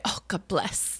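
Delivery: soft whispered God bless; hushed old-lady blessing; grandmother's phrase. Retold or imitated. Sister suggesting grandmother's soft "God bless". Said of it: "teach her to say".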